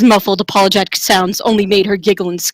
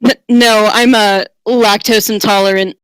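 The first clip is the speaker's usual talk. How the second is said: stammered. Acted. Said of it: "The handsome paladin stammered".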